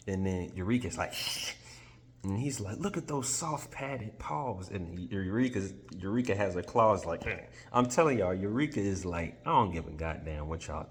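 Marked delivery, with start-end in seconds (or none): 2.8-4.7 high, softer sweet-talking voice; high cooing praise for the cat; sweet-talking Tin Man. Retold or imitated. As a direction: coo over the cat to charm them.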